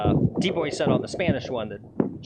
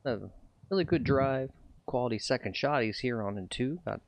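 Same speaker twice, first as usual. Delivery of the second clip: golf announcer voice. Pretend. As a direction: call it like a TV golf broadcast. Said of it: "Let's do a little announcer voice here".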